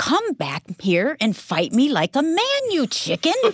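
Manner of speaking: high, wide, taunting yell.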